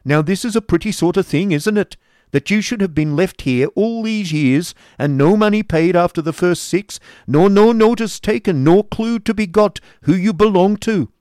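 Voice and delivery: loud, high sneering rant; mocking scold. A narrator's reading. Schoolmaster berating the unpaid boy, loud and mocking. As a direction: lay into the boy with scorn. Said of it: "replied Squeers testily".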